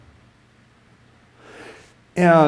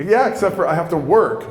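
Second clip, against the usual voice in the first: mildly exasperated, higher protest; upset; 5 semitones higher than usual. Retold or imitated. Worker told he'll be baptized, mildly upset. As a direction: re-enact mounting frustration. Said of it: "I'm getting upset now".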